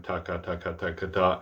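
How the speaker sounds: quick, even "taka" in pairs; unaccented rattle of "taka" syllables; double tongue pattern. Shown as a demonstration. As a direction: run "taka" evenly, ending on "ta". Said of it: "take a double tongue pattern".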